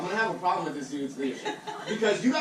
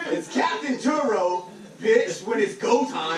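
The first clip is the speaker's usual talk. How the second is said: high squeaky voice; 4 semitones higher, 4 dB louder, slower than usual. Retold or imitated. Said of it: "Did you suck the fucking helium".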